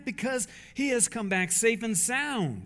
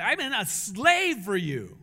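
bitter complaint; 4 dB louder, slower than usual. Acted. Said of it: "That doesn't sound very joyful to me".

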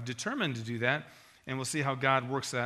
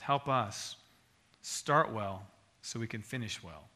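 closing prayer. Acted. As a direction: pray for the church. Pastor closes in prayer.

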